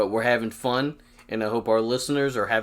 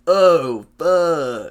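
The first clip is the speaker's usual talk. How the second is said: loud startled curse; alarmed shout; 4 semitones higher, 8 dB louder than usual. Retold or imitated. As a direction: blurt it out in alarm. Retold panic again.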